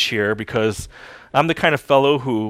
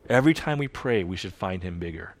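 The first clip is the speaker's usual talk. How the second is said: softened echo; 6 semitones lower, 6 dB quieter than usual. Shown as a demonstration. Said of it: "modify that classic line".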